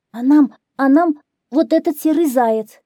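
high, loud, stammering hare voices; hares passing blame. A narrator's reading. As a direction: squeal it out like little hares. (зайцы, высоко и сбивчиво)

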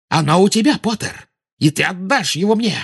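high, frantic insistence; angry demand. A narrator's reading. Witch insists the boy still has it, demanding frantically.

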